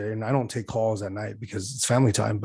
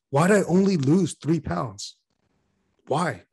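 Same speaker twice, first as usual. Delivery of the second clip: higher, slow mock complaint; whiny dieter; 6 semitones higher, slower than usual. Mocking someone losing weight, higher whiny complaint. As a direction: whine it like a frustrated dieter.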